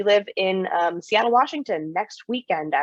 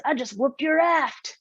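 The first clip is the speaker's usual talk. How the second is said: reading a viewer's comment; 8 semitones higher, slower than usual. Retold or imitated. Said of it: "Dreamboat three sixteen says".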